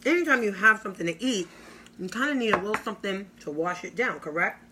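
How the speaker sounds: talking with a mouthful; mouth full. Real, not acted. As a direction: speak around a bite of food. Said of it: "I don't mean to eat with my mouth full".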